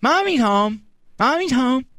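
put-on high childish echo; a toddler parroting the question back. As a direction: say it like a small kid. Toddler repeats.

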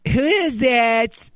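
put-on high, slow little-kid question; toddler voice. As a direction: ask slowly like a three-year-old. Toddler asks.

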